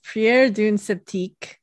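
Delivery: careful, slow French reading; amateur French accent. Shown as a demonstration. Giving the French reading for the co-host, careful French accent. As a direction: read the French title slowly in an imperfect accent. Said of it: "I've been working on my accent".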